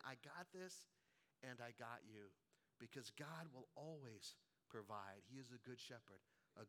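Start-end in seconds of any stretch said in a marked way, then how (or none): 0.0-2.3 Spirit's gentle voice. Retold or imitated. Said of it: "Just the voice of the Spirit saying".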